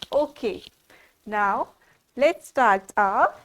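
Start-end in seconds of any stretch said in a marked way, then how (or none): none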